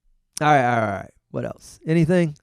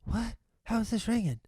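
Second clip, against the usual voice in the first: mock baffled; 8 semitones higher, 4 dB quieter than usual. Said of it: "you would answer it like a mystery".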